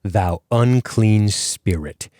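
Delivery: slow, measured Bible reading; drawn-out, portentous recitation; solemn scripture reading. Acted. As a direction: intone the verse slowly and deliberately. Opens show reading scripture.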